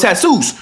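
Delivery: "Jesus" said hay-SOOS, with an H; Spanish pronunciation. Shown as a demonstration. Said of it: "J is H".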